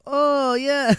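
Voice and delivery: high sheepish "oh, yeah"; mock-sheepish clerk; caught-out clerk. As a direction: play the busted cashier.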